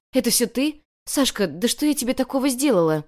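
a touch of hurt confusion; bewildered. A narrator's reading. Girl confronts the one who framed her, bewildered. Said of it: "растерялась Ленка".

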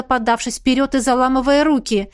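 usual speaking voice

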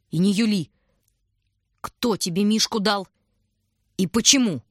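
loud, menacing interrogation; threatening. A narrator's reading. Sister interrogating Shurka, loud and menacing. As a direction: press him hard, threatening. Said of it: "совсем угрожающе".

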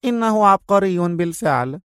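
high, firm female character voice; decisive. A narrator's reading. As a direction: state it with finality. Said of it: "قالت في حسم".

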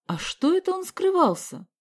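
father questioning suspiciously. Acted. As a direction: probe him, distrustful. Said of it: "подозрительно спросил отец".

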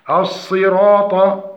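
slow, careful reading of the word; recitation demo. Shown as a demonstration. Teacher introduces the next word, slow recitation. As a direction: draw out the long vowel.

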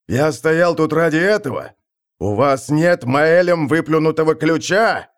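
чуть шамкая, сквозь зубы; слова сквозь лязгающие зубы; loose dentures. Acted. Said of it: "Лязгая зубами, Скорген Кабан подал голос". (шамкающий голос старпома)

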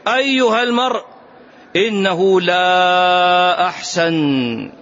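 sneering, drawn-out mock reply; mock the preacher with a slow sing-song. Hypocrite's leader mocking the Prophet, slow sneering sing-song. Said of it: "هذا على سبيل التهكم".

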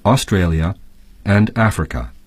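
careful, even reading of a lesson text; textbook reading. Acted. Teacher reading the lesson text aloud for the class, clear textbook read. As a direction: read the passage clearly for students.

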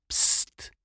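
soft, secretive hiss; quiet hiss. A narrator's reading. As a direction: hiss softly for attention. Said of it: "dobiegło go ciche syknięcie". (ciche syknięcie)

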